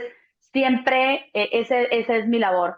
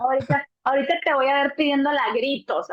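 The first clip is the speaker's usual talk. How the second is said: mocking nurse; 2 semitones higher, faster than usual. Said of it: "así, ¿no? Diciendo".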